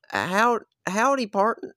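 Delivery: high, loud cowboy greeting; cowboy accent. Pretend. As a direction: try out a hammed-up cowboy accent. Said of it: "a different accent".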